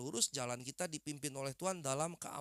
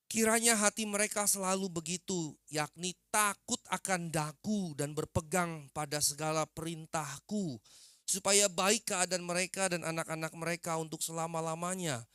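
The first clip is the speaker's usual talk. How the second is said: loud, measured proclamation of a verse; scripture reading; 6 dB louder than usual. Real, not acted. Preacher reads Deuteronomy to the congregation, loud scripture reading.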